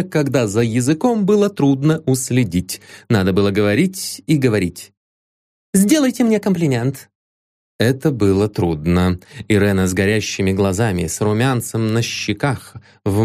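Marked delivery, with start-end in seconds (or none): 5.7-7.1 coquettish demand. A narrator's reading. Irena demands a compliment.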